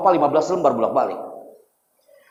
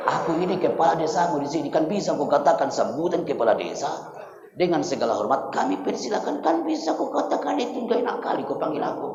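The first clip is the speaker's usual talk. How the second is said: Batak village head; 4 dB quieter than usual. Acted. Batak village head corrects the boy's introduction, Batak accent. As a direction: grumble with a Batak accent about being slighted. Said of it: "kepala desanya itu orang Batak".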